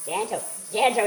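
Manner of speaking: a mock quote of someone urging gentle, gentle; a light imitation of someone coaxing; quoting someone. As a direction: repeat gentle, gentle in a lightly put-on voice. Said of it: "he says".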